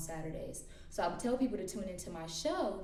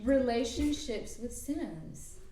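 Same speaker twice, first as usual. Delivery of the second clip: show title announcement; 5 semitones higher, 4 dB louder, much slower than usual. Shown as a demonstration. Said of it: "and I would call it".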